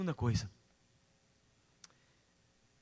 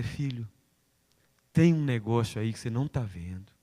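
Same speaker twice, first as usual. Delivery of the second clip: voice of God; 4 dB louder than usual. Acted. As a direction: warn the son calmly but firmly. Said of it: "se Ele disser".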